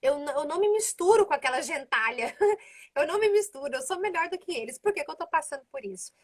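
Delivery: smug, self-righteous prayer, with a laugh at the start; mock Jeremiah showing off to God; lightly hammed-up boasting, picking up pace. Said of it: "se exaltando".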